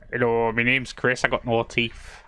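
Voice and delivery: put-on Northern accent, impersonating a mate; Northern English accent. Teasing a friend by speaking as him, Northern accent. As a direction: introduce yourself in a mock Northern accent. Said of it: "I don't know why I made you Northern either".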